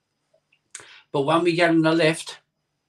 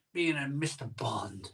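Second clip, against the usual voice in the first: whispered; 3 semitones lower, 10 dB quieter than usual. Pretend. Daydreaming about being Bond.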